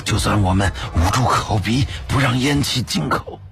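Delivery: high, strained voice broken by coughs; coughing and gasping. A narrator's reading. Smoke-choked leader warns they will suffocate, coughing and gasping. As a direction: choke the words out between coughs. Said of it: "不停地咳嗽着".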